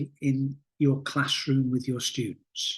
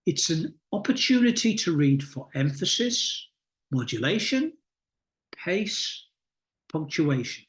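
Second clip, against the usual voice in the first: measured reading with a clear pause after each comma. Shown as a demonstration. Teacher reading a bullet point aloud to her class, with a deliberate pause at each comma. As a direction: pause deliberately at every comma, set the pace. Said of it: "you could hear how I was pacing, I was pausing".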